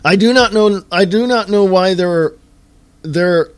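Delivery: fed-up rant building up; exasperated outburst. Real, not acted. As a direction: burst out in frustration. Ranting about apathetic public.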